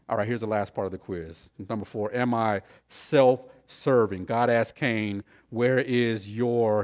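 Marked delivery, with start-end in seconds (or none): 5.5-6.8 "Where is your" slow, leading up to the key word; slow set-up, holding back "brother"; stress on brother. Shown as a demonstration. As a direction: draw out "Where is your" before the emphasis. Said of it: "here's the emphasis".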